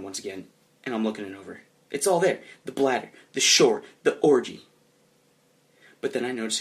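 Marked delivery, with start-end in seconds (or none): 1.9-4.6 loud, punched itemizing; mildly exasperated self-defence; indignant insistence. Acted. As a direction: list each place emphatically, with force. Acted indignant defence of map.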